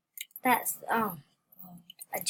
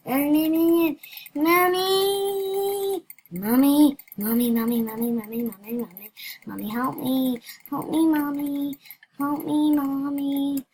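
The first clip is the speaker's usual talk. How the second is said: mock cry for mommy; 3 semitones higher, 4 dB louder than usual. Pleading to mommy in the game.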